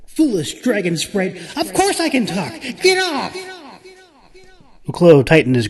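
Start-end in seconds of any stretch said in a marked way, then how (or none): 0.1-3.3 scornful, rising very high; sharp unicorn voice. A narrator's reading. Unicorn scorning the Clove, sharp and haughty. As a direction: sneer like an angry magical mare. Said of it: "very sharp, intrusive voice".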